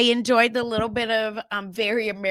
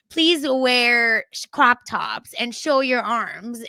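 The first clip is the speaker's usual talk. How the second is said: mock pushy mom; 4 dB louder, slower than usual. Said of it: "My mom ... would be like".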